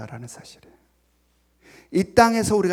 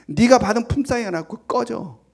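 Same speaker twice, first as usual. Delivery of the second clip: acted scolding, pitched a little higher; 4 semitones higher, 4 dB louder than usual. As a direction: tell them off and send them packing. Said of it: "꾸짖었어요". (꾸짖듯이)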